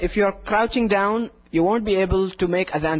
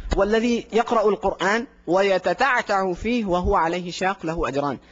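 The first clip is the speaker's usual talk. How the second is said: hadith recitation; much faster than usual. Acted. Quoting hadith in Arabic.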